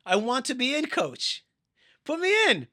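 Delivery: acted high, eager shout; insistent pleading. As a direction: call out urgently to the coach. Acted player calling to coach.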